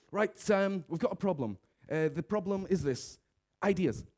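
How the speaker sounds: mock bossy brainstorm host demanding ideas; brisk meeting leader. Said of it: "they just go".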